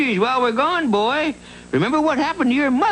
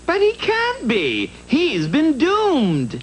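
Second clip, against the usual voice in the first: disbelief; 4 semitones higher, slower than usual. Acted. Virgil shocked that Joe lives.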